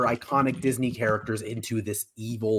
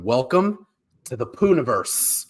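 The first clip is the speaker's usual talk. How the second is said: announcer intro. Shown as a demonstration. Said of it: "I'm gonna say the headline".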